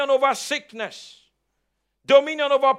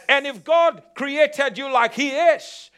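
preacher's shout. Real, not acted. Preacher's climax to congregation.

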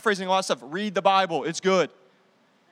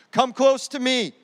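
tender invitation; 4 semitones higher, 6 dB louder, slower than usual. Acted. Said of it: "Joseph said to his brothers".

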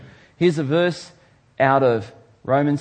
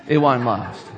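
laughing mock warning; 3 semitones lower than usual. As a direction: repeat it with a laugh, falling off at the end. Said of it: "If you think I'm saying to you".

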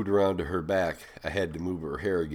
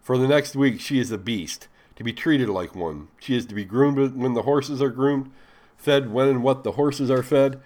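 louder, higher, commanding orders; a loud, higher master giving orders to the stable hand; loud enough to hear; 5 semitones higher, 6 dB louder than usual. A narrator's reading. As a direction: announce it so she hears every word. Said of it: "loud enough for her to hear".

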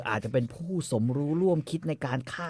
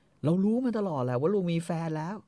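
mother's voice; 7 semitones higher than usual. Retold or imitated.

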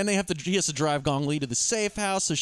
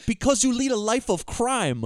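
slow, higher-pitched comeback; mock movie cop; 5 semitones higher than usual. Cop answers the whining fence, slow mock movie retort. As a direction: quote her slowly, pitched up. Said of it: "And she goes".

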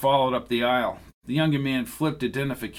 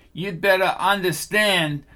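higher, cocky and self-assured warning; a smug agent talking down; 6 semitones higher than usual. Acted. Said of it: "He sounded cocky and self-assured".

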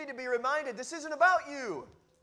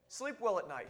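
soft reassurance; 4 dB quieter than usual. Shown as a demonstration. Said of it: "Do you see the difference?".

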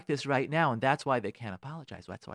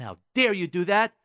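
raised, indignant scolding; resentful, upset parent; 4 semitones higher, 3 dB louder than usual. Acted. Upset parent to a child placed in the upper class, indignant. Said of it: "you're resentful and you're upset".

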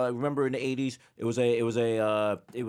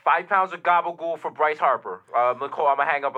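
radio call-in fan; 5 dB louder than usual. Acted. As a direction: pitch a trade like an eager caller. Radio caller proposes trade.

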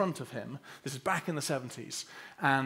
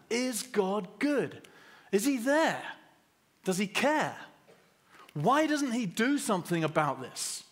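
anguished doubt; 7 semitones higher, 3 dB louder than usual. Retold or imitated. Voicing doubting questions in pain.

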